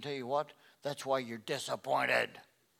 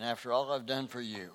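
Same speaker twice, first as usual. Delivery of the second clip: a touch of wounded self-pity; self-pitying complaint; 3 semitones lower than usual. Retold or imitated. Jeremiah complaining to God, mildly self-pitying. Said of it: "Jeremiah's touched".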